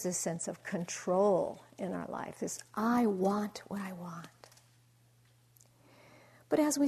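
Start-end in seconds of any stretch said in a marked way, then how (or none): 2.7-4.3 breathy whisper of the grasping mind; slow whispered inner voice; whispered craving. Retold or imitated. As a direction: hush it like a secret want. Voicing ego's craving inner voice.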